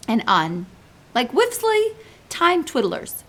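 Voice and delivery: big friendly giant pleading gently; giant's voice. Acted. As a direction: play the kindly muddled giant. BFG explains giants dying.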